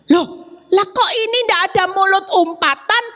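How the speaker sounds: a light touch of a baffled husband; husband startled that no curse came, mock surprise; surprised husband. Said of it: "Dia kaget".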